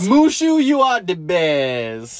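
loud start, long drawn-out finish; hammed-up echo. Dad echoing his child's quote, hammed-up drawl. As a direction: belt out MUSHU, then stretch the rest slowly. Dad echoes line in exaggerated voice.

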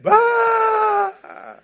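high, hammed-up baby wail; mock baby cry. Pastor acting the baby's sudden wail.

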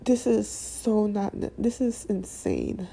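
fighting back tears as the words come; getting emotional. Real, not acted. Venting to viewers about police killings, choked up and emotional. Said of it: "I'm getting emotional as I speak right now".

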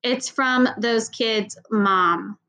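put-on slow, flat, bored teen drawl. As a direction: drag the words out like nothing matters. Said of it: "announced in a bored voice".

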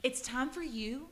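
mock scolding lecture; scolding quote. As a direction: tell them off like a stern aunt. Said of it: "I would tell those pussies".

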